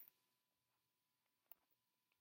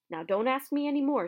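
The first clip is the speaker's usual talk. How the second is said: loud, high gruff Hagrid; 5 semitones higher, 6 dB louder than usual. Acted. Hagrid warning the children off, gruff and loud. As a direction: gruffly shut the questions down. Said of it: "said Hagrid gruffly".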